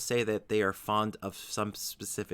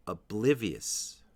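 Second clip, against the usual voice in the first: "oblivious" as o-BLIV-ee-us, said slowly; second-syllable stress; slower than usual. Shown as a demonstration. Teacher modelling the word for learners, slow "oblivious" stressed on BLIV. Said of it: "The stress is on the second syllable".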